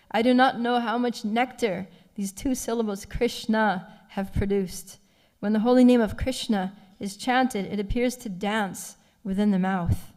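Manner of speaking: measured, fervent recital of a sacred verse; verse recitation. Acted. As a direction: recite scripture with rising fervor, then settle.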